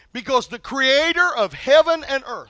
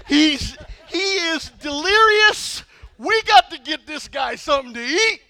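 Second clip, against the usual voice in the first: incredulous disciple; 5 semitones higher, slower than usual. Retold or imitated. Disciples marvel at Jesus.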